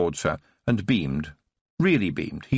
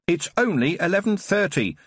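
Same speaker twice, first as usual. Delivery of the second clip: shouted; 8 semitones higher than usual. Acted. Tiffany shouts after the departing nurse, retorting. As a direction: shout it down the corridor. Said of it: "Tiffany shouted after her".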